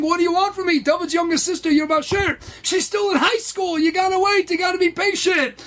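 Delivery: high, insistent acted reproach; exasperated chiding. God tells the impatient suitor to wait, exasperated chiding.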